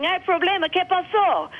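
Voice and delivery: breathless, high Spanish question; out of breath after running; panting. Retold or imitated. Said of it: "So I come up panting".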